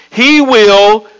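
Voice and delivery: "He will" drawn out before a held pause; emphatic lead-in. Shown as a demonstration. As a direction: stretch "He will" to set up the key word. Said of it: "I'm gonna emphasize the word".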